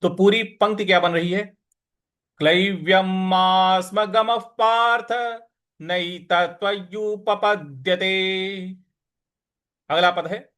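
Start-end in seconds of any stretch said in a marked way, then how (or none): 2.4-8.8 slow, measured Sanskrit chanting; slow recitation. Shown as a demonstration. Teacher recites the verse for students, slow chant. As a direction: recite the verse slowly, each syllable clear. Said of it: "इस प्रकार से इसको बोलेंगे".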